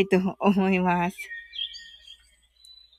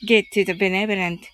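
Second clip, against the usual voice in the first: guided meditation; 2 semitones lower than usual. Acted. Leads a loving-kindness meditation.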